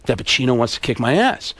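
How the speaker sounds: low, soft confiding voice; Alec Baldwin. Acted. Baldwin confiding that Pacino is after him, low and soft. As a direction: drop low and quiet, confidential leading man. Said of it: "So Alec Baldwin says".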